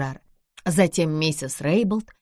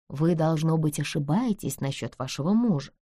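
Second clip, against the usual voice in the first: мягко; 4 dB quieter than usual. Acted. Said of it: "мягко сказала Бесс".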